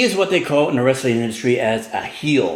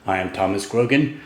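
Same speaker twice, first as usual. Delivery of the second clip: show-host intro; 3 semitones lower than usual. Acted. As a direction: open the show with long, held syllables. Drawn-out show-opening greeting.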